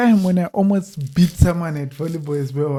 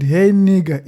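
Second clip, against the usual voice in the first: attacking tone; 7 dB louder than usual. Retold or imitated. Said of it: "in a way where I had done something wrong".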